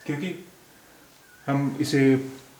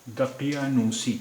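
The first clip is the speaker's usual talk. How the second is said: slow careful model; slower than usual. Shown as a demonstration. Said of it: "अब ये शब्द है".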